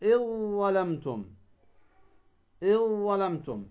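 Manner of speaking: "إذ ظلمتم" as "iẓ-ẓalamtum"; merged recitation. Shown as a demonstration. Teacher gives second example, ذ merged into ظ. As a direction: hold a doubled ظ in "إذ ظلمتم". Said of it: "تدغم الذال في الضاء".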